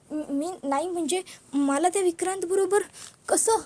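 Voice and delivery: upset, near tears. Acted. Padma panics about marrying Vikrant.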